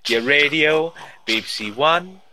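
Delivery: announcer voice. Pretend. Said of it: "you're lapsing into BBC".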